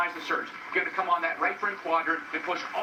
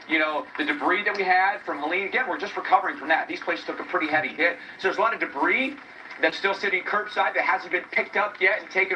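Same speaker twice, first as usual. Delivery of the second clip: raised voice against the storm; shouting over wind; 4 dB louder than usual. Real, not acted. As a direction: project loudly over gusting wind. Live reporter outdoors in hurricane wind.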